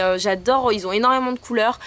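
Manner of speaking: ordinary talk, nothing marked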